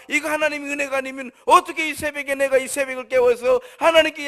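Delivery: high, loud, sustained preacher's fervor; fervent preaching. Acted. Preacher marvelling to God at dawn prayer, fervent.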